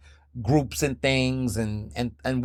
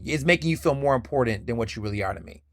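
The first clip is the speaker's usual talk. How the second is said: usual speaking voice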